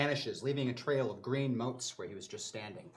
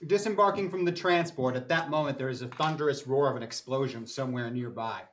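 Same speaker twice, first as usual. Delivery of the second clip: game master narration. A narrator's reading. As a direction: narrate it like a sci-fi action scene. GM scene narration.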